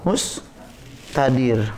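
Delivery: Mustadir spelled out very slowly; slow term drill. Shown as a demonstration. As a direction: say Mustadir syllable by syllable. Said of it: "Ini sifar apa tadi namanya". (Mustadir diucapkan sangat pelan)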